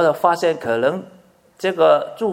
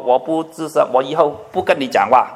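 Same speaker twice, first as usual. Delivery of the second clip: wife's huff; 2 semitones lower, faster than usual. Retold or imitated. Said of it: "我太太就说".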